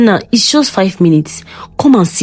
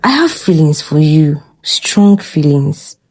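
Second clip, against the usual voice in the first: soft, slow, half-whispered confession; soft seductive voice; 8 dB louder than usual. Acted. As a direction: breathe it slowly to tempt him. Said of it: "she said in a soft voice".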